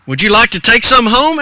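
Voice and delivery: lightly voiced storekeeper asking; store owner. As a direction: offer it like a friendly grocer. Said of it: "asked Mister Miller".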